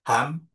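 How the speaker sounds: "hamdani" read out as a model, long "da"; demonstrated reading. Shown as a demonstration. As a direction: model the dual ending in "hamdani". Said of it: "Maka cara bacanya".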